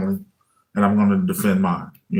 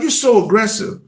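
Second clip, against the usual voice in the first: much higher mock reproach; high put-on wife voice; imitating wife; 10 semitones higher than usual. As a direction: mimic the wife's complaint, pitched way up. Wife's reproach repeated in story.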